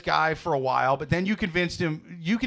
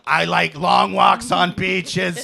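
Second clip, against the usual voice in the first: slow, louder raspy smoker woman; lightly voiced raspy older woman; raspy female voice; 5 dB louder, much slower than usual. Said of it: "She's raspy".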